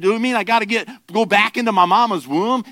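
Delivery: incredulous, can't picture it; hammed-up bewildered question; baffled Nicodemus. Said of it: "He said".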